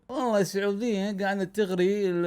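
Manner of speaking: mock English accent on Arabic, a voice unlike his own; English pundit impression. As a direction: play an English pundit sneering in a put-on English accent. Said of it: "طبعًا هو انجليزي مو يحكي عربي". (تقليد معلق إنجليزي بلكنة إنجليزية)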